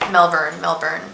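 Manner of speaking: Melbourne said as MEL-burn; short "er" in Melbourne, repeated; Melbourne, reduced second syllable. Shown as a demonstration. Agreeing with a viewer, Melbourne as MEL-burn. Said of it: "yeah, you're right".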